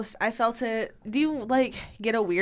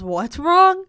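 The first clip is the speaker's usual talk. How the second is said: imitating worried boyfriend; 10 semitones higher, 11 dB louder than usual. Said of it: "He goes".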